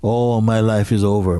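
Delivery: an exclaimed "Oh, my life is over." with a mild despairing cry; mock lament. Heartbroken person imitated by a teacher, a mild despairing cry. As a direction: throw out "Oh, my life is over." like a lightly acted wail. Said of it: "speaking from an emotional state".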